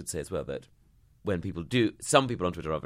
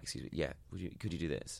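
mock meek request; 5 semitones lower, 11 dB quieter than usual. Retold overly polite request.

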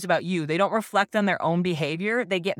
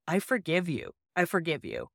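soft forgiving reassurance; 5 dB quieter than usual. Retold or imitated. Mom comforting ashamed son.

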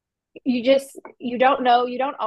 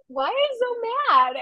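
very high, slow mock question; drawn-out, pitched-up mock bewilderment; imitated baffled husband; 13 semitones higher than usual. Husband asking his upset wife, hammed-up bafflement.

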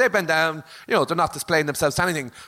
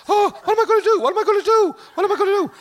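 high, loud, frantic panic; mock panic, much higher and louder; panicked wail; 5 dB louder, faster than usual. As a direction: wail it like your world just ended. Panicked customer calling brother.

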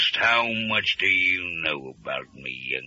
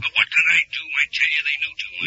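panicky; 8 semitones higher, 3 dB louder, faster than usual. Acted. Barnaby protests in panic.

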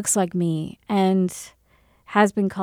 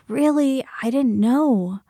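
retold surprise; 3 semitones higher, slower than usual. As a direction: imitate people innocently learning something new. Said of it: "people are like".

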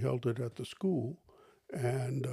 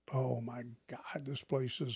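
whispered complaint; 8 dB quieter than usual. Retold or imitated. Imitating complaining hospital patient.

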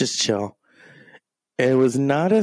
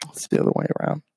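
whisper; much faster than usual. Real, not acted. Whispered repetition aside.

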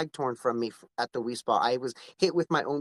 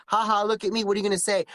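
lightly taunting, pitched up; a mock-gleeful dare, raised in pitch; playful taunt; 6 semitones higher, faster than usual. Taunting critics while imagining the provocative outfit, playful mockery.

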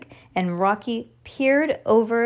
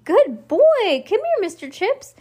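high-pitched praise for a puppy; excited dog-calling; 12 semitones higher, 6 dB louder than usual. A narrator's reading. Judy calls the puppy with a cookie, excited. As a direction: coax the dog over in a raised, eager voice.

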